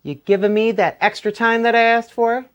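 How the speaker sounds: lightly voiced wily Jack; sly Jack. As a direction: coax him like a cunning rogue. Jack bargains with the stranger.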